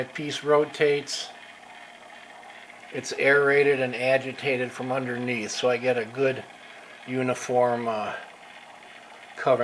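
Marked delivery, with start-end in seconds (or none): 2.9-9.6 short of breath, still recovering; breathless after surgery, pausing for air. Real, not acted. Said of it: "I'm a little bit out of breath".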